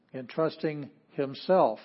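slow, himself weighted; slow stress on himself. Shown as a demonstration. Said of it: "focus on".

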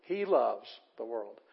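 slow, with "He loves" stretched out; emphatic, drawn-out He loves; stress on HE LOVES. Shown as a demonstration. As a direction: draw out He loves, then let "the world" drop. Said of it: "is the one being emphasized here".

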